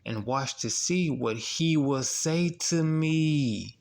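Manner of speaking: slow, deliberate scripture reading. Shown as a demonstration. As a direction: lean on each word of the verse.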